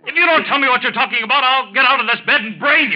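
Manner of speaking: furious threat. Acted. Sick husband threatening the doctor from his bed, raging.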